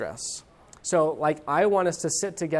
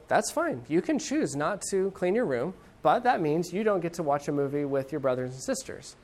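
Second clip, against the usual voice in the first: even, unbothered calm reply; calm and cool. Retold or imitated. Dad calmly setting the consequence, cool and even. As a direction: stay cool and matter-of-fact. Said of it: "If I keep my cool and I say".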